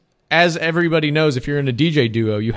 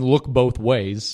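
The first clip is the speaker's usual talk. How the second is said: slow, deliberate; 3 semitones lower, much slower than usual. Shown as a demonstration. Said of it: "rule number one".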